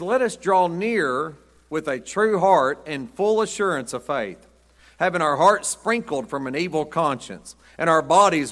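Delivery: slow, solemn pulpit reading; scripture reading. Acted. Pastor reading Hebrews to the church, solemn and slow. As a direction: read the verse like it's holy.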